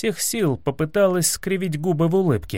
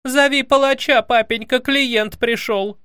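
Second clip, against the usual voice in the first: shouting; 9 semitones higher, 3 dB louder than usual. A narrator's reading. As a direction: yell down the hall for the executioner. Princess yells for the executioner.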